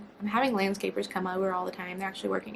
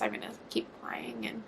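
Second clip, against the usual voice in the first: softer whispered aside; 7 dB quieter than usual. Real, not acted. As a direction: drop to a whisper.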